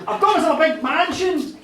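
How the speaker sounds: put-on American accent dropped, loud and high; own accent. Billionaire caller shows off to Pat, loud in own accent. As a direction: burst out in your own natural accent, amused. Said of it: "I'm gonna drop the accent now".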